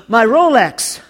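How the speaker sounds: a grieving wail over the lost watch; anguished cry. Retold or imitated. Preacher voicing the injured rich man, mock anguish. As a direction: cry it out like the watch is all that matters. Crash victim mourns watch, not arm.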